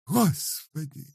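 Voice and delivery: very high, slow keening; lamenting. A narrator's reading. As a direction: grieve aloud, pleading with God. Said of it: "убивалась старуха".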